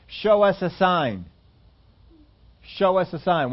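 slow, pushy demand; mock challenge to Jesus; demanding Pharisees. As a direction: press him for proof, drawing it out.

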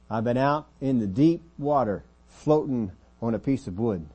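emphatic testimony. Acted. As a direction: proclaim the ordeal to a congregation. Preacher voices Paul listing hardships.

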